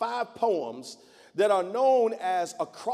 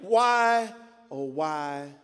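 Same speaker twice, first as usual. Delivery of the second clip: much higher and louder, crying out in despair; anguished cry to God; 9 semitones higher, 5 dB louder than usual. Acted. A weary soul crying out to God in agony, anguished shouting. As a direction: wail your lament up to heaven. Preacher voices anguished lament prayer.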